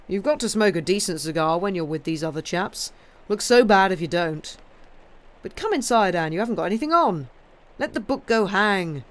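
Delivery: a bluff man teasing his wife; hearty husband. A narrator's reading. Henry teases Anne in the garden, lightly hearty.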